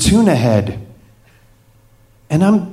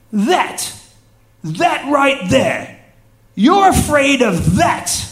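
much higher, slow hammed-up pirate drawl; pirate captain voice; 10 semitones higher, slower than usual. Captain pointing at the shark, teasing the scared tourist in a hammed-up pirate voice. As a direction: stretch it out like a knowing old sea dog. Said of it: "so you're gonna get pirate".

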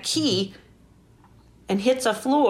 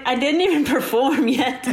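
laughing; 4 semitones higher than usual. Retold or imitated. Retold reaction, laugh in line.

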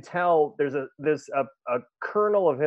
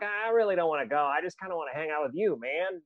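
lightly voiced Jay Baruchel, soft and reluctant, the last bit rushed; a hint of Jay Baruchel, mumbling that he doesn't want to go; Jay Baruchel impression; 4 dB quieter than usual. Telling a friend about the film, a light Jay Baruchel impression with a soft reluctant mumble. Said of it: "That's my best Jay Baruchel impression".

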